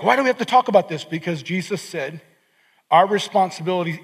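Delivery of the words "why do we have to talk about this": higher, fast, grumbling whine; mock whiny complaint. Reluctant congregant groaning about the topic, mock whine. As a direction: sulk like a reluctant listener. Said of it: "Some of you are like".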